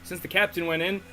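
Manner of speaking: hammed-up Southern-or-Cockney gossip; uncertain Southern-Cockney accent. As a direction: tell it indignantly in a wobbly Southern-Cockney accent. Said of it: "I don't know if she's Southern or British".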